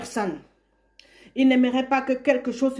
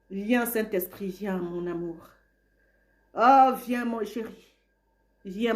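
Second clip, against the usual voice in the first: tender prayer. Real, not acted. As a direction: coax the Spirit in close like a beloved. Tender invocation of the Spirit.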